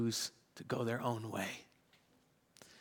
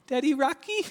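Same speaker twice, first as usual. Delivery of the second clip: put-on much higher, louder pleading little girl's call; second, more insistent take of a child's call through the monitor; louder little daughter calling; 12 semitones higher, 5 dB louder than usual. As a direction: cry out again like a toddler who won't wait. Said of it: "I can hear her cry through the monitor".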